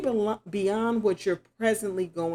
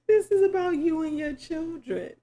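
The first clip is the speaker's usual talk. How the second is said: excited; 9 semitones higher than usual. Real, not acted. Emphatic reading a card.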